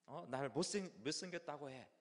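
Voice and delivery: mock a cranky kid's outburst; whiny annoyance. Young child griping at mother, acted annoyance. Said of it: "엄마한테 막 짜증을 내는 거예요".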